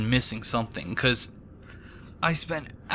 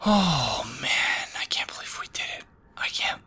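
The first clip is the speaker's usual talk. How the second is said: stunned relief; 3 semitones higher than usual. Real, not acted. Stunned after finishing the hard quest.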